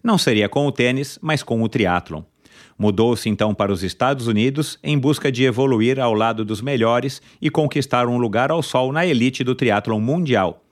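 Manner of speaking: upbeat podcast host intro; announcer intro. Acted. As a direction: build up to the guest's name. Announces the guest's biography.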